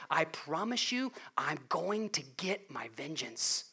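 a hint of God promising vengeance quietly. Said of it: "That's what he says".

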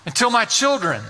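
a parent's aching cry of how long; lamenting prayer. Acted. A parent cries to the Lord for their children, lamenting.

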